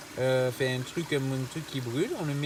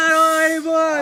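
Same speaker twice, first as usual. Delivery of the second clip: in ice cold water; 12 dB louder than usual. Real, not acted. Man in icy river.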